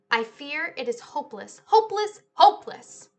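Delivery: a museum director at his wit's end, wailing; despairing cry. Acted. Mister Dart despairs over thefts.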